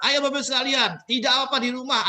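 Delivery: high, loud crowd call; rally shout. Retold or imitated. Speaker mimicking a host calling out to the crowd, rally shout. Bisa teriak-teriak.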